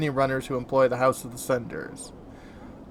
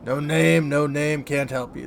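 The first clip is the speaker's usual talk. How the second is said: curious lilting sing-song; slower than usual. Acted. Dustman turning the player away, sing-song. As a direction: chant it like a nursery rhyme. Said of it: "speaks in a curious sing-song voice".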